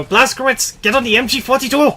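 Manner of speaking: high, loud yelled battle order; shouting soldier. Retold or imitated. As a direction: bellow the command at a soldier. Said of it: "how loud the guy is about it".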